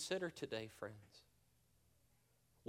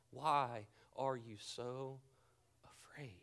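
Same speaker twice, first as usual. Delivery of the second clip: slow fading whisper; 4 semitones lower, 6 dB quieter, slower than usual. Acted. Repeating Jesus' question, slowing.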